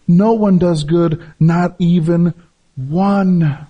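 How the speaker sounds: slow, weighty reading of the verses; preacher reading scripture with slow, heavy emphasis; preaching scripture. Acted. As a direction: lay each line down like a verdict. Reads scripture with slow force.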